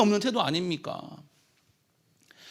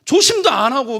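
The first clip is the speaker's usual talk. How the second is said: higher, louder reproach to his wife; blaming wife; 5 semitones higher, 4 dB louder than usual. Retold or imitated. Husband blaming his crying wife for the injury, in a higher, louder reproach. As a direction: snap the blame at her. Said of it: "이 남편이 못됐죠".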